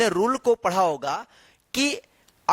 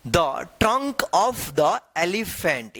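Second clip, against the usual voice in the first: each word drawn out slowly for learners; slow reading aloud; 2 semitones lower, much slower than usual. Shown as a demonstration. Teacher reading the chapter title slowly to students. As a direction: read it slowly so students can follow. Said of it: "यहाँ पे chapter का नाम है".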